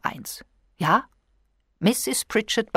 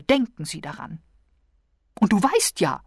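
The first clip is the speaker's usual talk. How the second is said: a lightly raised, plaintive wife's voice; fretful invalid wife; 6 semitones higher than usual. A narrator's reading. Wife reproaching her husband George, lightly raised plaintive voice. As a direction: reproach him like a put-upon invalid. Wife retells fortune teller.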